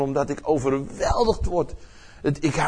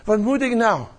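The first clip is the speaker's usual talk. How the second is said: earnest plea to the Father, raised voice; pleading Jesus; 7 semitones higher than usual. Retold or imitated. Jesus asks his Father whether he may interrupt his mission, a pleading higher voice. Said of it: "dat Jezus zegt".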